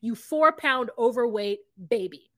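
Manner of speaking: hammed-up indignant lecture, easing toward the end; mock upset scolding. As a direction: imitate an exasperated coach scolding his girlfriend. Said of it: "he is upset".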